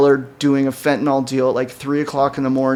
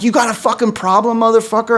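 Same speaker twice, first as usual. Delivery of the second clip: mock confrontational, pitched up high; retold aggressive challenge; 8 semitones higher, faster than usual. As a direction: imitate a girl picking a fight, voice raised in pitch. Retold gunpoint challenge from the girl.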